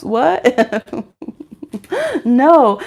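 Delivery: normal talking voice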